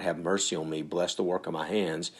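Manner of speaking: hushed, understated plea; begging God. Acted. Preacher begging God to bless his work, quiet pleading. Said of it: "and then beg God".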